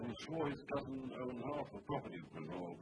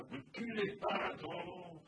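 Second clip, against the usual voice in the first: cry out; 7 semitones higher, slower than usual. A narrator's reading. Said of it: "who in charge would cry".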